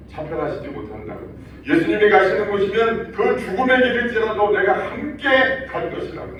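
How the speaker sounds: normal talking voice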